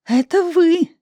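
high, loud accusing shout; high loud furious accusation; angry accusation. Acted. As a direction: jab the blame at them. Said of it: "зло ткнула в них пальцем".

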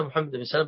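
سلام with a single, unstressed l: sa-laam; light lam. Retold or imitated. Teacher quotes the narrator naming himself, light lam in سلام. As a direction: say سلام without doubling the lam. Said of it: "بالتخفيف".

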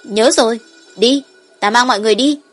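put-on quick little dragon child, raring to go; eager child.

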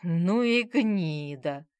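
drawn-out disgusted spit of words. A narrator's reading. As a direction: say it like spitting. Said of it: "с омерзением выговорил Володя". (с омерзением, медленно)

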